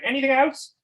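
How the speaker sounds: high, loud impatient yell; imitated shout. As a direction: yell it at pestering kids. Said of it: "he used to scream at us".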